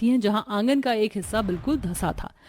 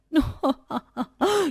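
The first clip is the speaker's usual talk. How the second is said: high jeering cackle from the window; mocking laugh; 6 semitones higher than usual. Sister-in-law jeers at the bride stuck in mud, mocking laugh. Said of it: "केतकी अपने पक्के मकान में से हंसी उड़ाती है".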